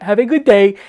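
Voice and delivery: put-on parroting a thick Latino accent; imitated Latina-accented reply; same Latino accent. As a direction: echo the cashier's Latino accent without missing a beat. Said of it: "in the same accent that she had given me".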